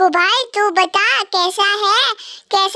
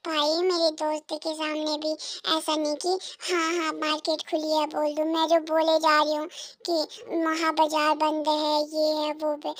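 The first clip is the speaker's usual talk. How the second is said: quiet grumbling; 9 dB quieter than usual. Acted. पत्नी खुद से धीमे बुदबुदाती है.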